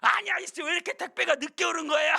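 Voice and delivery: loud, high, rapid mock tirade; hammed-up scolding of a late courier; angry customer. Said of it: "하면서 막 화를 내더래요". (화내는 손님을 흉내 내어 높고 크게 따지는 말투)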